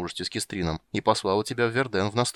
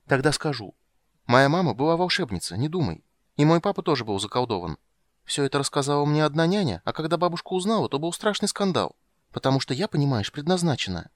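put-on high childish urging; a girl demanding an oath; secretive little girl; 7 semitones higher, 3 dB louder than usual. Ciri to Geralt, high and pleading. Ciri's voice.

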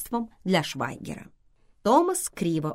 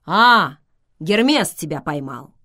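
joyful; 8 dB louder than usual. A narrator's reading. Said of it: "Томас сказал радостно".

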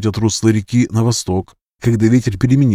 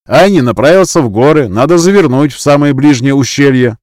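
higher, louder eager youth voice; eager boy; 5 semitones higher, 6 dB louder than usual. Acted. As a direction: insist keenly like a talkative boy. The chatty boy insists.

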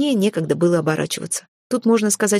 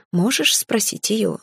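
gentle growl; much slower than usual. Acted. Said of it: "ласково прорычала я".

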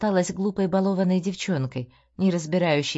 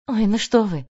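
incredulous; 3 semitones higher, 4 dB louder than usual. A narrator's reading. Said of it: "недоверчиво усмехнулась".

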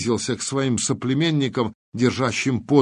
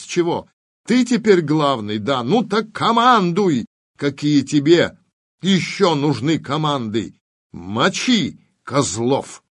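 angry shouting; 3 semitones higher than usual. Acted. Alftan shouting at Nikita to take command, angry. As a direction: yell at him to take command.

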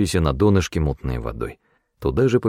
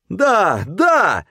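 frightened eager yes; 13 semitones higher than usual. A narrator's reading. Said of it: "судорожно закивал я и со страхом".

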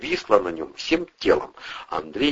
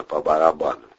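ordinary delivery

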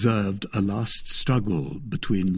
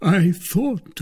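slow, drawn-out, higher lament; melancholy; 10 semitones higher, 4 dB louder than usual. A narrator's reading. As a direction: put on wistful gloom. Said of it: "resuming his melancholy air".

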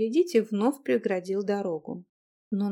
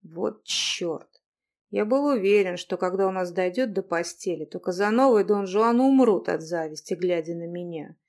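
guilty chuckle; 3 dB louder than usual. Acted. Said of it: "с виноватой усмешкой".

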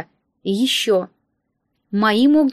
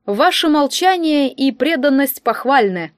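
slow, smug, louder villain; scheming instructor voice; 4 semitones higher, 4 dB louder, slower than usual. Acted. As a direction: lay on the smug authority. Instructor plotting a coup.

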